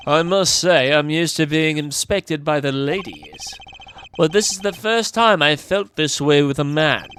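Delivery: put-on British accent. Flirtatious Gavin speaking of the ladies, British accent. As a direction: suave character in a mild British accent. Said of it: "I'm still gonna keep the British accent".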